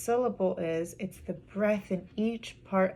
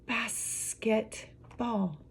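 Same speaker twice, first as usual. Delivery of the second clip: very slow, soft "Basketball" in pieces; syllable by syllable; 5 dB quieter, much slower than usual. Shown as a demonstration. Teacher showing a multi-syllable word, slowly broken apart. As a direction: break "Basketball" into three spaced beats. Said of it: "multi-syllable word".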